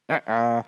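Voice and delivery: wrong answer buzzer. Shown as a demonstration. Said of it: "Make a buzzer noise".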